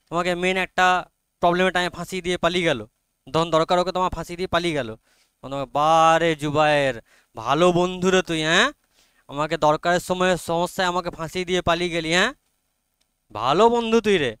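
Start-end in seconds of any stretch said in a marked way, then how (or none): 5.8-14.3 lightly acted sarcastic reproach; ironic praise. Teacher acts out reproaching a friend who let them down, mildly sarcastic. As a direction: praise the friend with pointed irony, drawing out the opening. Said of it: "তো এটা হয়ে গেল কি? Irony.".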